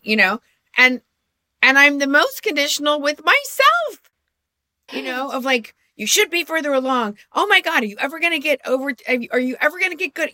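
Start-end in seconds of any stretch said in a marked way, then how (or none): 5.9-10.3 high, fast nagging self-talk; fast, high mock self-scolding; harsh inner critic. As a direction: rattle off your own critic. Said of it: "my self-talk".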